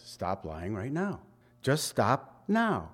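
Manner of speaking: soft, low, earnest order; a hushed, insistent command; quiet firm command. Acted. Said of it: "That's what he says".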